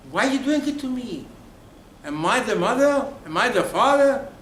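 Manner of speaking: loud, high-pitched protest; exasperated protest. Acted. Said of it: "That's the way you speak to Hashem".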